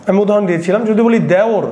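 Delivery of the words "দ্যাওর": দেওর said "dæor"; open ae vowel. Shown as a demonstration. Teacher testing students on the example, open ae. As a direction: say দেওর with wide "æ" after the d. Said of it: "দেওরের উচ্চারণটা কিরকম".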